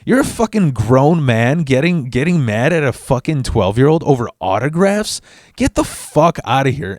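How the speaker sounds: put-on a kid's outraged comeback to a grown man; indignant retort. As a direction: throw it back at him, incredulous. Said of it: "self-aware enough to be like".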